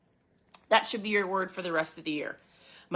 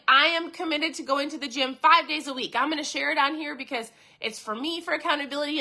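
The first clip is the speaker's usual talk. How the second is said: mock social media post; 4 semitones higher than usual. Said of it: "you're like".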